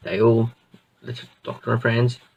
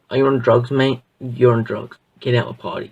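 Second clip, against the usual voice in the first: loud, scoffing brush-off; incredulous rich guy; 6 dB louder than usual. Retold or imitated. Rich guy loudly dismissing the Doctor. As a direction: shout him down like he's mad.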